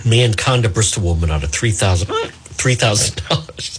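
news read derailed by a hiccup. Real, not acted. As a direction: hiccup mid-number and say it over. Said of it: "Hiccups live on the air".

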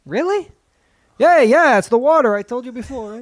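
high squeaky rat voice, getting loud. Pretend. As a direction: keep the cartoon rat going, high and pushy. Rat character keeps talking.

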